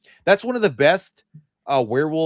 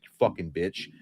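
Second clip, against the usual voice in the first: low, softer muttered curse; under the breath; 7 semitones lower, 6 dB quieter than usual. Retold or imitated. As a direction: hiss it under your breath. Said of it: "I'll say that under my breath".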